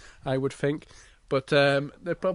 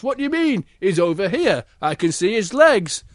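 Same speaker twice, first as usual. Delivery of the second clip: guard; 4 semitones higher, 4 dB louder than usual. Acted. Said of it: "guard goes".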